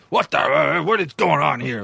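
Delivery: put-on drill-sergeant indignation; military-style boss. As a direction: imitate a stocky boss demanding answers. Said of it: "kinda seemed military".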